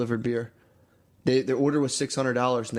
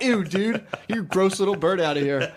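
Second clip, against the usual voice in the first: higher, louder grossed-out brush-off; mock disgust; 6 semitones higher, 3 dB louder than usual. Brother rejecting the boss before leaving, high mock disgust. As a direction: recoil and shoo him off. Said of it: "my brother's like".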